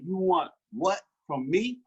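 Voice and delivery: slow and deliberate, leaning on each word; a slow, probing challenge to a father; pointed slow question. Retold or imitated. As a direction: make him realize who you are, slowly. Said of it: "I'm trying to make him realize who I am".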